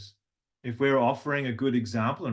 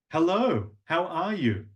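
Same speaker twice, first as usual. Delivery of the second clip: higher, lilting greeting; sing-song; 5 semitones higher, slower than usual. Shown as a demonstration. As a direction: draw out the words tunefully. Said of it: "I'm using longer words".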